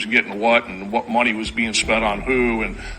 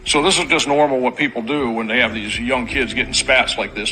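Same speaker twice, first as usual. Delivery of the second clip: sarcastic. Real, not acted. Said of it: "I'm saying this sarcastically".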